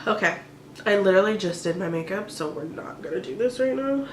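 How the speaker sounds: holding back tears. Real, not acted. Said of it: "I'm starting to cry".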